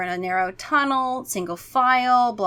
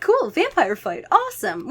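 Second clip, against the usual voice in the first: a touch higher, eager; excited kid; 7 semitones higher than usual. Acted. Freddy cheering the vampire fight, mildly excited. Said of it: "he's like".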